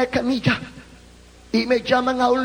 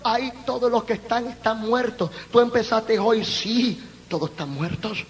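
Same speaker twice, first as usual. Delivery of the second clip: dismissive doctors; 3 semitones lower, 6 dB quieter than usual. Retold or imitated. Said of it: "le dijeron".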